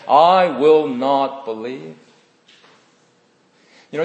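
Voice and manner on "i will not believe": slow, firm refusal; strong refusal. Retold or imitated. Preacher quoting Thomas to the church, slow and firm. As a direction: lean on each word of the refusal. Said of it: "how strong the tone of his word".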